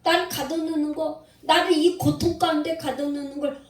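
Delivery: an understated outcry of Job; crying out. Retold or imitated. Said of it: "이렇게 막 부르짖는 거예요".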